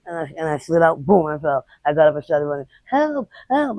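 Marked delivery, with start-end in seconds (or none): 2.9-3.8 retold cry for help. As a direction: re-enact calling out while running away. Retelling her screams while fleeing.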